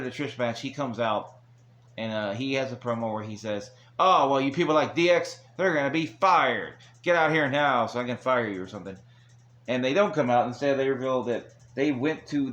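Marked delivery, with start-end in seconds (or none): 4.0-8.6 louder, higher retold threat; mock angry boss. Vince threatens to fire D X, mock angry promo. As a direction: imitate a boss ordering people out.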